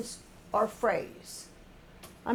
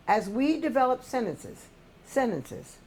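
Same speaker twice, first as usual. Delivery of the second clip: "sentences" dropping in pitch at the end; falling sentence end. Shown as a demonstration. Teacher showing how pitch drops as we develop sentences, falling sentence end. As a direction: let the tune sink on SENTENCES, then repeat that fall. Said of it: "that pitch goes down at the end".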